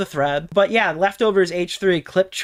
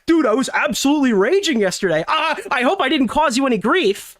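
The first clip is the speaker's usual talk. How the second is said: lightly sneering, higher mock voice; biased reading; 7 semitones higher than usual. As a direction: make the message sound smug. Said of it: "that's not exactly how he presented that".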